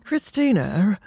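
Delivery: "Christina" ending as if in E R; British ER ending. Retold or imitated. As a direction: echo mock-British "Christina", rising. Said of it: "With an E R".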